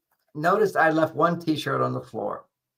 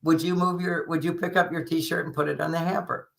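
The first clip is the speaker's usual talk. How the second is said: light, slightly raised voice, imitating an easy ask; simple casual request; 2 semitones higher than usual. Wife asking husband to pick up his T-shirt, simple casual request. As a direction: ask offhandedly, sure he'll do it. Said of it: "in that tone of voice".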